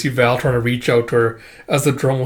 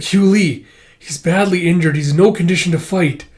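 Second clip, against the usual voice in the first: higher, concerned voice; acted urgent concern; worried alarm; 5 semitones higher, 3 dB louder than usual. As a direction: protest anxiously, pitch raised. Alarm at an injured friend.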